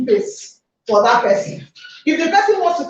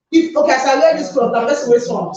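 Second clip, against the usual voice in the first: casual Nigerian pidgin aside. Real, not acted. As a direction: slip into Nigerian pidgin, offhand. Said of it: "Sorry, I'm speaking pidgin".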